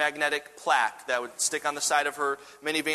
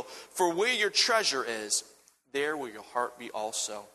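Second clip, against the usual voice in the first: slow, measured sermon reading; Scripture reading; 2 semitones higher, slower than usual. Acted. Preacher reading Jesus' words to the congregation, solemnly. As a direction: read the verses out slowly, building in the middle.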